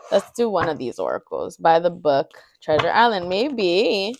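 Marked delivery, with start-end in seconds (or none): 3.3-4.1 a lilting, drawn-out "Maybe." that rises and falls; an accidental sing-song "Maybe.". Real, not acted. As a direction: let "Maybe." float up and down like a little tune. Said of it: "I don't know why I said it like that".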